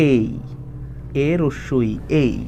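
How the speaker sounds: এই as a glide from e to i; correct A sound. Shown as a demonstration. Teacher showing A written in Bengali, correct A sound. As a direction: spell out and draw out এই, slowly. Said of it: "বাংলায় লিখি তাহলে এরকম আসে".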